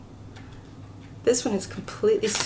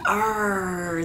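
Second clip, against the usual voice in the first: pirate arr; 4 semitones lower than usual. Acted. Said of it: "the pirate says arr".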